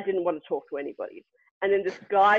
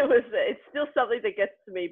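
choked up. Real, not acted. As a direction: voice catching on a real regret. Admitting a painful near-miss.

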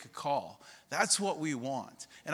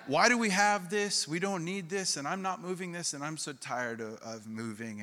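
mock angry rant. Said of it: "mangry. It's, like, moving angry".

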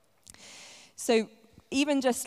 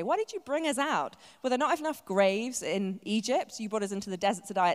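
sarcastic; 2 semitones higher than usual. Retold or imitated. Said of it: "tongue-in-cheek insult".

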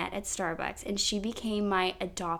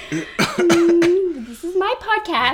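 loud laughing tease; teasing through a laugh; 8 semitones higher, 9 dB louder, much slower than usual. Real, not acted. Teasing husband about podcast.

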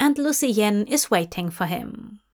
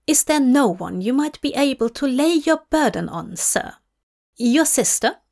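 Lucienne, worried aide; 4 semitones higher, faster than usual. Acted. Lucienne pleading.

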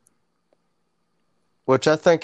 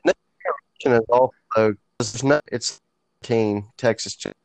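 breaking up on a bad connection; words dropping out, glitchy line; choppy cut off endings. Real, not acted. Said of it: "you're cutting out on me".

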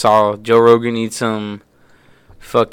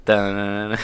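hummed jingle; 3 semitones lower, 5 dB quieter than usual. Retold or imitated. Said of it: "The jackass sound system".

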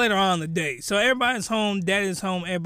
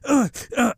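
mock grunts. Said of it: "I don't know what that was".

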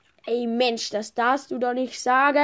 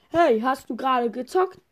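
stern parent; 4 semitones higher, 6 dB louder than usual. Pretend. Parent scolds child.

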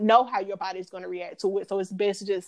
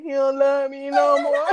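higher, louder tearful wail quoted from a film; imitating Yvette; 6 semitones higher, 5 dB louder than usual. Mimicking Yvette's heartbroken line for listeners, mock crying. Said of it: "that time I was like Yvette".

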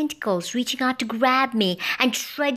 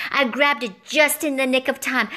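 plain reading voice

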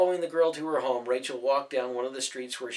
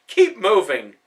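barked order; 6 semitones higher, 11 dB louder, slower than usual. A narrator's reading. Brutus orders his men.

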